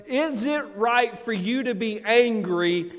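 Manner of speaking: God's question, loud and high; preached question. Acted. Pastor voicing God's challenge to Jonah, loud preached question. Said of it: "and asks him".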